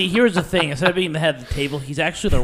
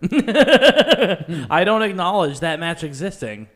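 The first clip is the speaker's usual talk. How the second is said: laughing; much slower than usual. Real, not acted. Joking refusal, laughing.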